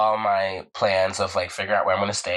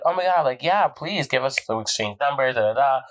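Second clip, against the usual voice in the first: higher-pitched imitation of thrilled riders; eager acceptance; 4 semitones higher than usual. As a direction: plead excitedly, lightly acted.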